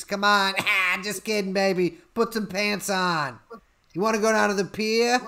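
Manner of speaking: hammed-up Jersey catcaller; New Jersey accent. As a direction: flirt brashly in a mock New Jersey accent. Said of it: "Okay, New Jersey".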